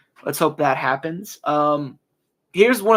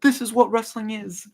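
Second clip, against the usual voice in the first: mock announcer call; 7 semitones higher than usual. Dreaming of the announce table, a lightly voiced mock match call. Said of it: "be casting, like".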